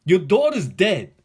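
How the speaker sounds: mock callous messenger; heartless news. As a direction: drop the news coldly, like an enemy. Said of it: "no compassion. No mercy".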